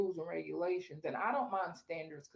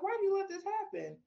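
mad at God; 12 semitones higher, 3 dB louder than usual. Retold or imitated. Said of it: "'cause I was mad".

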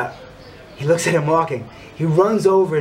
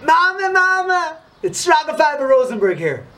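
a pleading shout; desperate yell; 4 dB louder than usual. Retold or imitated. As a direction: call out to the mother with all his strength. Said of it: "and he yells".

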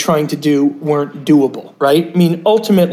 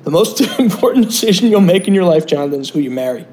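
put-on thick Brooklyn grandmother accent; lightly voiced Brooklyn grandma; faster than usual. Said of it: "she said this in a thick Brooklyn accent".

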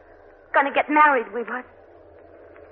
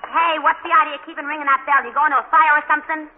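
irritated, raised voice at the door; annoyed; 4 semitones higher, 5 dB louder than usual. Acted. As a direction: scold the bell ringer. Francie annoyed at the doorbell.

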